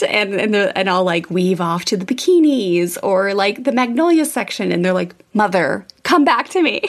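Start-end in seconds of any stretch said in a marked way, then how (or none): 5.3-6.8 lightly voiced pleading kids, pitch lifting; kids calling mom back. Kids reining in mom at Target, mock plea.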